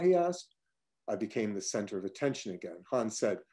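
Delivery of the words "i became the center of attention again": usual speaking voice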